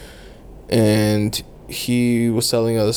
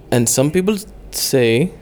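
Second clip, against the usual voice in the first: put-on Indian accent; 3 semitones higher than usual. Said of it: "why am I doing an Indian accent?".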